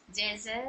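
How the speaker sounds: soft, drawn जज़ा with the pause on the long a; pausal recitation. Shown as a demonstration. Teacher demonstrating a pause on a double zabar, soft. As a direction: recite जज़ा, stretching the ending as one zabar and alif. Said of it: "एक ज़बर और एक अलीफ के तरह".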